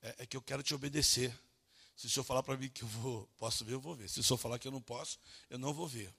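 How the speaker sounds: put-on subdued, timid child's explanation; a bit afraid. Son explaining himself to angry father, a bit afraid. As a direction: lightly imitate a meek son. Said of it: "meio com medo".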